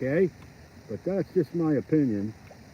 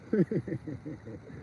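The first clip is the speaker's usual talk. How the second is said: soft staccato chuckle; small self-amused laugh; 3 semitones lower, 7 dB quieter than usual. Real, not acted. Laughs at going crazy.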